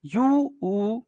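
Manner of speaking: यू stretched very slowly into a bare ऊ; slow model of the "oo" inside यू; vowel sounded out. Shown as a demonstration. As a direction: draw out यू, then hold ऊ alone. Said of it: "ऊ आ रहा है ना".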